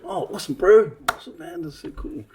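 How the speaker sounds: high-pitched, put-on chumminess; mock friendliness. Man greets programme guest he had snubbed, mock-friendly. Mimics man's sudden friendliness after slight.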